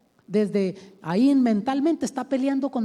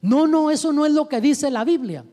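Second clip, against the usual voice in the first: confronting correction; 5 semitones higher, 6 dB louder than usual. Acted. Teacher bluntly correcting a student.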